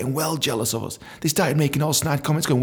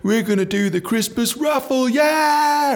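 raffle host; 10 semitones higher than usual. Retold or imitated. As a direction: announce it like a stage host. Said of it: "he's like".

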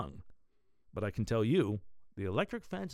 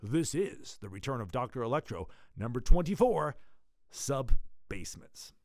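announcer voice; 6 dB louder than usual. Acted. Deluder announces floor.

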